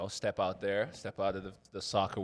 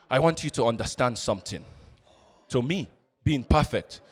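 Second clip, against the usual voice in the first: put-on African accent. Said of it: "I'm gonna do an African accent".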